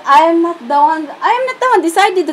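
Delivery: retold comeback. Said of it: "Sabi ko, sabi ko".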